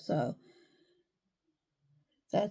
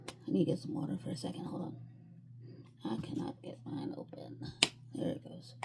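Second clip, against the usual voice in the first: out of breath; 9 dB quieter, faster than usual. Real, not acted. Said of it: "I don't know why I'm out of breath".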